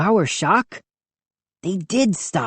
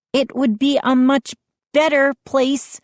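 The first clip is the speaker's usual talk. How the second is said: sharp retort; 9 semitones higher than usual. A narrator's reading. Mindy retorts.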